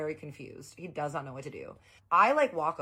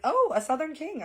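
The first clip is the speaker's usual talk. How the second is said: delighted squeal; 13 semitones higher, 8 dB louder than usual. Retold or imitated. Delighted by fried okra request.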